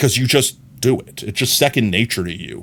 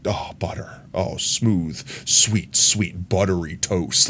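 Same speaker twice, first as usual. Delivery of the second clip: soft, breathy savoring, much lower and quieter; hushed blissful swoon over a smooth voice; dreamy swoon; 5 semitones lower, 6 dB quieter, much slower than usual. Pretend. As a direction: melt as if tasting something delicious. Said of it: "listening to Markiplier speak is just like".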